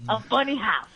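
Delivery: high, pushed mock-tough Pesci voice; Joe Pesci impression. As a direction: needle him like a Goodfellas gangster. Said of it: "Sometimes I say that to him".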